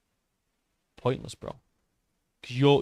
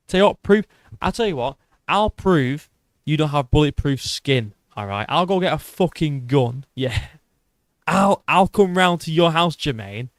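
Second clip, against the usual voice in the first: heated mock challenge, raised voice; mock threat; 3 semitones higher, 5 dB louder than usual. Streamer threatening a chatter to disprove bulletproof skin, mock aggressive. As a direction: jokingly threaten with a louder, higher push.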